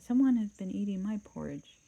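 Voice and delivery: loud gruff papa bear claim; great huge bear. Acted. Papa Bear to his family, gruff loud voice. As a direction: boom it out like the biggest bear. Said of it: "in his great rough, gruff voice".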